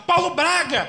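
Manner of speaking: high, loud call of the name; trance shout. Retold or imitated. Medium shouting the father's name, high and loud. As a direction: shout the name across the room. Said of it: "Ela começou a gritar".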